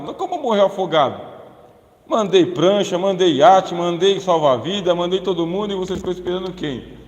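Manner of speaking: loud, rising rebuke, slowing on the list; God rebuking a man who waited to be saved; God scolding. Acted. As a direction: thunder the list of rescues.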